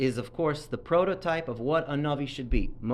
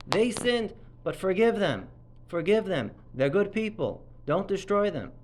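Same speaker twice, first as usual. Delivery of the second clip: raised, pleading plea for mercy; 6 semitones higher than usual. Retold or imitated. Rabbi voicing Moshe begging God to forgive the people, raised pleading. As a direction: beg God to spare them, voice lifted. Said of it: "He was saying".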